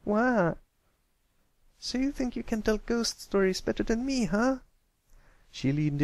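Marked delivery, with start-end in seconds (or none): 0.0-0.5 loud, sudden yelp; startled yelp. Acted. Pipsqueak startled by a stomped hoof, yelp. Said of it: "he jumped slightly". 1.8-4.6 furious challenge. Acted. Scootaloo confronting Pipsqueak, indignant. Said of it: "stomped down a hoof in fury".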